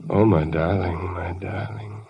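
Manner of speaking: slow, low, lingering endearments; tender murmur. Acted. Man alone with his beloved Linda, tenderly.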